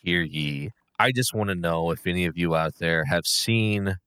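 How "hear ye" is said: mock proclamation, first call raised; hammed-up herald calling out; town crier. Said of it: "bless us with another picketh".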